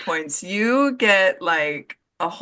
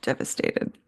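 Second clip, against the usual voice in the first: mock devastated; 5 semitones lower, 6 dB quieter than usual. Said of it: "needless to say, I am".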